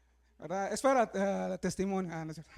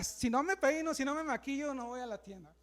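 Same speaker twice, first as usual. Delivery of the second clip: mock woman; 6 dB quieter than usual. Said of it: "Y las mujeres".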